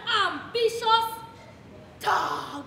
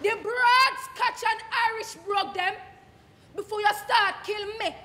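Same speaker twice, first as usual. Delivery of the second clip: indignant patois speaker challenging the critic; Jamaican dialect monologue. Acted. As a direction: argue back in broad patois, wounded and sly. Performing Miss Lou dialect piece.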